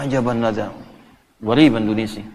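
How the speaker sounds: a hint of the sheikh's amazed remark in Arabic; imitating Syekh Hadi. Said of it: "Syekh Hadi wallahi katanya". (menirukan suara Syekh Hadi yang sedikit lebih rendah)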